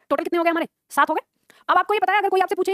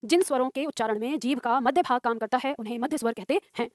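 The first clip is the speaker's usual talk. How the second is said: measured dictation with pauses between phrases; 3 semitones lower than usual. Acted. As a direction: dictate it phrase by phrase for students writing. Teacher dictates a definition. (श्रुतलेख बोलते हुए, रुक-रुककर)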